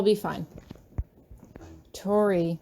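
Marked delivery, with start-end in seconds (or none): 1.9-2.6 purring her name. Acted. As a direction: draw her in with just her name. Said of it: "the way he purrs my name".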